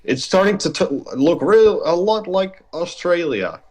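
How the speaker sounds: high-pitched mock worried mom; imitating mom. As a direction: mimic a fretful mother's warning. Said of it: "she's like".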